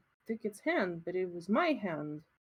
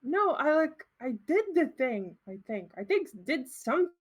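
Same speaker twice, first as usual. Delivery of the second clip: flustered; 4 semitones higher, 4 dB louder than usual. Acted. Character flustered, defensive.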